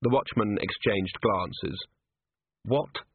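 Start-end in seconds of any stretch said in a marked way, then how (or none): 2.7-3.0 wary, questioning one-word reply; guarded question with a slight lift; very careful. Acted. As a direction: ask it very carefully. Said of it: "very carefully".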